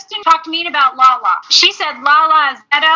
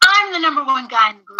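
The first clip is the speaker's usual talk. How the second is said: mock Jax boast; 2 semitones lower, faster than usual. Mocking Jax's line.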